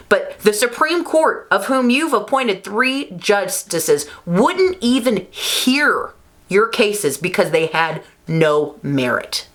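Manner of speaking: real indignation, high and slow; angry. Real, not acted. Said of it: "I'm angry, guys".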